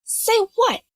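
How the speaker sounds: feigning innocence to tease him; false innocence. Acted. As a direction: play dumb, sweetly. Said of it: "peppered with false innocence".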